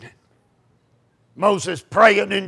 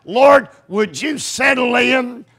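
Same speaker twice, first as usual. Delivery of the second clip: praying aloud. Acted. Preacher acting out Moses' evening prayer, impassioned praying. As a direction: plead with God, easing down at the end. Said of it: "He prayed this".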